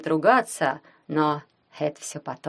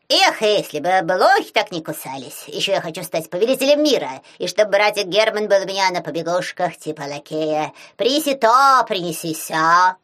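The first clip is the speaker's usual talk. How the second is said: excited shout; 4 dB louder than usual. Acted. Werewolf shouting wishes.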